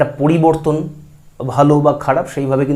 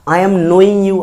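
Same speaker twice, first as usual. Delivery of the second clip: wrong form; 4 semitones higher, 4 dB louder, much slower than usual. Shown as a demonstration. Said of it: "আমি তোমাকে জানছি বলি না".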